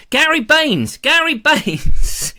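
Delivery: loud, high name call. Real, not acted. Calling out a viewer's name.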